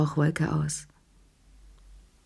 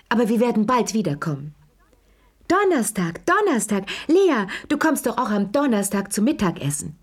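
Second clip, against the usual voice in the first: put-on high, eager, fluttering older hostess; a fussing old lady who won't let guests go; gushing Madame Pelou; 4 semitones higher than usual. A narrator's reading.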